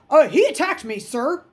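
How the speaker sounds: high, loud tattling whine; whiny boy. A narrator's reading. Bully lies to the teacher, high whiny tattle. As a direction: play the wronged innocent. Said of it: "Raleigh said".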